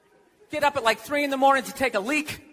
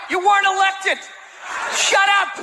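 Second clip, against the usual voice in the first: higher-pitched comic telling-off; mock exasperated scolding; 6 semitones higher than usual. Voter telling off an unelected wife, exasperated scolding. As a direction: scold an interfering spouse, pitched up.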